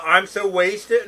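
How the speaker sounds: slow, slurred wasted drawl; lightly voiced stoned guy; slurred stoner voice. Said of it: "David Spade did that voice".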